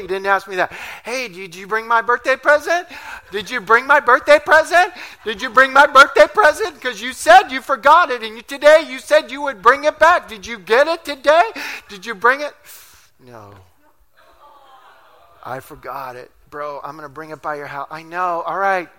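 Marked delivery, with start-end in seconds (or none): 1.0-12.5 put-on higher, louder insistent child voice; nagging kid. Boy nagging for his present. 13.2-17.9 much softer, lower, embarrassed mumble; sheepish admission. Retold or imitated.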